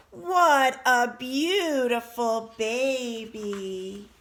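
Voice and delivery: loud, slow, drawn-out admiration; excited. Acted. Father bird admiring his newly hatched baby, excited. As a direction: gush over it, stretching each word. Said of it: "Mister Bird was very excited".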